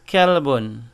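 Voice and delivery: kelbun with the K from the front of the mouth; kelbun, light forward K. Shown as a demonstration. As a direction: kelbun said as dog. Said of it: "called with this K here".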